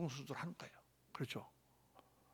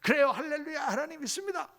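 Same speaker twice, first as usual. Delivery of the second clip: joyful reply; 9 semitones higher than usual. Retold or imitated. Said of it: "또 말씀해 주세요".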